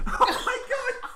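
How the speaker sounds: high, slow laughing cry; laughing shriek. Real, not acted. Drink sprayed everywhere.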